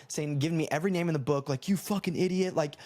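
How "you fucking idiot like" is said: higher-pitched mock yell, no real shouting; mild imitation of angry screaming; retold angry screaming. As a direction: imitate an outraged pedestrian cussing someone out. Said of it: "screaming at me, cussing me out".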